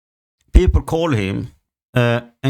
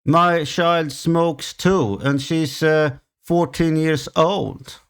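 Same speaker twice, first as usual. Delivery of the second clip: slow taunting voice with a scoffing laugh; mocking neighbor; 3 semitones higher, slower than usual. Neighbor taunting him about her smoking child, mocking and slow.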